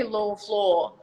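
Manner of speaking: "law" and "floor" rhymed the Australian way; Aussie "law" and "floor" sound alike; Australian rhyming law floor. Shown as a demonstration. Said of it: "'Cause we say".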